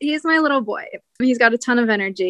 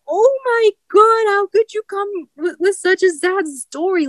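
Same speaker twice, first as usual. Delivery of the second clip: tearful; 9 semitones higher than usual. Retold or imitated. Moved by rescued cat's hug.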